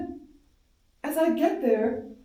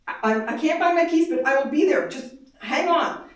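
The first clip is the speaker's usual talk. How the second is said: fast, louder, rushed and anxious; urgent reassurance; 2 semitones higher, 6 dB louder than usual. Retold or imitated. Mother on the phone to her frightened daughter, rushed and urgent. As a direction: hurry the words out while hunting for keys.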